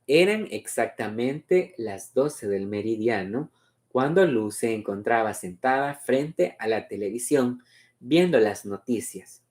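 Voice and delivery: measured, melodic read-aloud; story narration. A narrator's reading. Reader presenting Luz's memory of midday, story narration.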